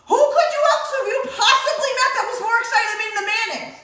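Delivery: high, loud and laughing; laughing incredulity. Retold or imitated. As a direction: laugh through your disbelief.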